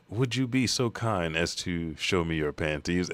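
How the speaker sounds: slow, measured mock-courteous request; put-on formal politeness; exaggerated politeness. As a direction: ask slowly with careful manners. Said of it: "being as polite as he can".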